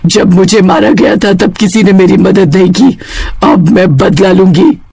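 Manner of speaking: a hint of a menacing witch; lightly voiced witch vowing revenge; vengeful witch. Freed witch announces revenge. (बदला लेने वाली चुड़ैल की हल्की आवाज़)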